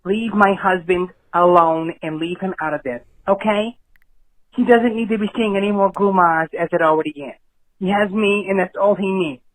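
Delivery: protective wife snapping down the phone; a fed-up Carmela-type wife warning off the caller; wife cutting in on the call, firm and annoyed; angry wife. Acted. Caller voices the mob boss's wife.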